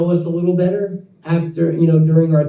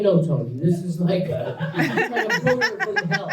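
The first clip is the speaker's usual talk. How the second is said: laughing through the quote; 5 dB quieter than usual. Retold or imitated. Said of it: "And they're like".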